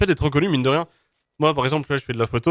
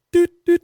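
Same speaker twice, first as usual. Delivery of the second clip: imitated beep; 6 dB louder than usual. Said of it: "on a entendu un tut".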